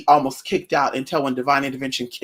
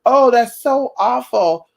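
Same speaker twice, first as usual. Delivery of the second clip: mock sympathy; 3 semitones higher than usual. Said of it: "people to say".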